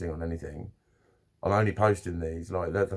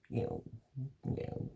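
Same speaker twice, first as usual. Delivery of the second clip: soft, quiet little meows of a settled cat; contented cat meows; 11 dB quieter than usual. Retold or imitated. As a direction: meow softly like a cat at ease. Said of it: "I'm happy now".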